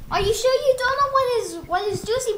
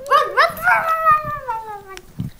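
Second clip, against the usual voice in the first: urgent; 6 semitones higher, 4 dB louder than usual. Acted. Urging group to flee.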